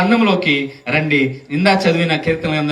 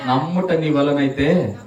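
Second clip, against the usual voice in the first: ordinary delivery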